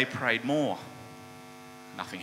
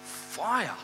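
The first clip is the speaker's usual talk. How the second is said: dramatic excitement; 3 semitones higher than usual. Retold or imitated. Preacher telling how fire fell from heaven, with mounting excitement. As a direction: punch out each thing consumed, building in force.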